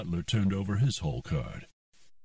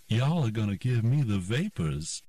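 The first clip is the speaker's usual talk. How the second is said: put-on Southern belle accent, playful; fake Southern accent; 4 semitones higher than usual. Trixie teasing the card players in a fake Southern accent. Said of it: "in a fake Southern accent".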